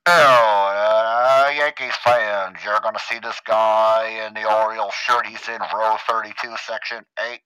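booming, slow, drawn-out PA announcement; mock ballpark announcer stretching every phrase loudly; stadium announcer. Announcer siccing Yankees fans on an Orioles fan, booming and slow. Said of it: "even the announcers come on".

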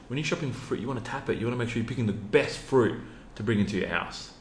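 put-on light Macedonian accent, grandfather; grandfatherly Macedonian accent. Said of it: "you know, Macedonian accent".

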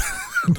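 short high giggle at his own slip; burst of laughter. Real, not acted. Host laughing at mixing up the names, short high giggle. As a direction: laugh it off, caught out.

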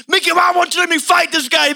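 pleading fighter. Retold or imitated. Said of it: "and he's like".

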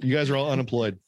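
high, gleeful mock boss voice; mock Elon announcement. To Twitter staff, high gleeful mock announcement. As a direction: play a boss cheerfully firing everyone.

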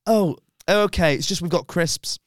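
a hint of a sheepish young man; mocking the lad. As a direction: mimic his lame excuse. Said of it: "And he went".

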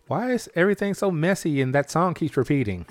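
mock listener complaint; imagined caller. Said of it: "And then there were calls".

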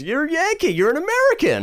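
very high, hammed-up New York guy; over-the-top excited New York coworker; New Yorker impression. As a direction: exclaim it as a mock New Yorker. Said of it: "this new guy from New York".

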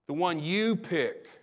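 slow phrase with weight on YOU; emphasize YOU, unhurried; stress on YOU. Shown as a demonstration. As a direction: lean on "you", not the noun. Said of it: "He puts the emphasis on us".

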